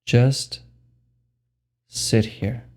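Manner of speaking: slow, spacious meditation guidance with long pauses; guided meditation. Acted. Meditation guide telling listeners there is nothing to do, unhurried guided meditation. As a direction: lead them unhurriedly into stillness, pausing between phrases.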